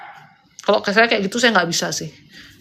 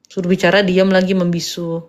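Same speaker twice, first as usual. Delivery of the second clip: louder, exasperated about the silent guest; annoyed complaint; 3 dB louder than usual. Real, not acted. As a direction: complain loudly that he won't talk. (mengeluh keras karena tamu diam)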